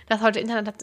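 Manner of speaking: slurring, tongue-tied words; slurred and stumbling with a laugh. Real, not acted. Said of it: "ich kann nicht mehr reden".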